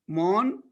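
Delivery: "Morn" as one separate syllable, N closing it; isolated syllable. Shown as a demonstration. Teacher isolating the first syllable, sounded out. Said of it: "a syllable".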